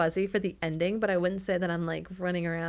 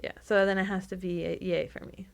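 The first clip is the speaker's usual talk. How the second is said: reluctant, half-hearted yay; a touch of disappointment in the verdict; unhappy. Real, not acted. Co-host giving her rating on the book, reluctant. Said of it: "You don't sound very happy".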